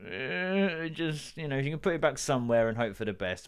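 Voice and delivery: knowing hint. Retold or imitated. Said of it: "they're kind of looking at me like".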